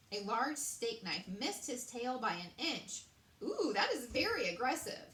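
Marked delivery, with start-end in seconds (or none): 3.4-5.1 startled cry. A narrator's reading. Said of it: "he cried".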